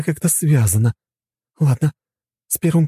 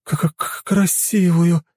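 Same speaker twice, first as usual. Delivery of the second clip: shrieking jackpot winner; 3 semitones higher, much slower than usual. Acted. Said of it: "завизжала от радости".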